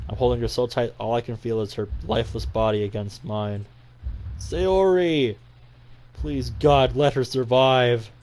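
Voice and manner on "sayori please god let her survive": anguished cry. Acted. Narrator cries out over his friend's body, anguished. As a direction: cry out her name, then pray.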